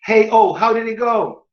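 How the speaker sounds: English line copied from the clip, pitch rising on how; imitating a Friends clip. Shown as a demonstration. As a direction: shadow the actress's American line. (imitando a fala americana do clipe)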